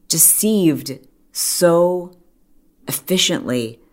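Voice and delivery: deceived so dragged very slow, efficiently whispered; drawn out emphasis. Real, not acted. Condemning the murderer to viewers, slow then hushed. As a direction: stretch it out, then whisper the last word. Stressing the deception.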